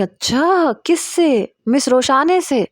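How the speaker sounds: curious schoolgirl gasp of surprise; surprised girls. Retold or imitated. Friends react to marriage news.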